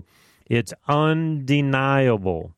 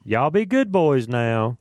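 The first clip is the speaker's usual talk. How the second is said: scolding elders. Retold or imitated. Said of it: "I can just see them wagging their fingers".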